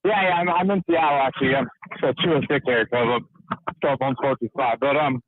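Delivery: talking out of breath while cycling; out of breath from pedaling. Real, not acted. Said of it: "sorry, I'm out of breath".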